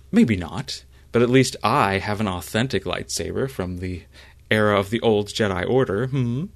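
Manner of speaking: a haughty little jab; Rune. Acted. GM voices Rune.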